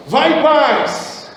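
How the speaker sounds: slow, drawn-out mock prophetic blessing; mock prophesying. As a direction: pronounce a showy blessing, word by word. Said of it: "vem aqui que eu vou profetizar".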